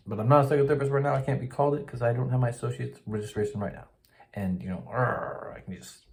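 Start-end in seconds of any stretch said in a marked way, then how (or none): 4.9-5.5 drawn-out growl of exasperation; frustrated growl. Real, not acted. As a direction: growl out your irritation without shouting. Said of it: "so pissed at the Board".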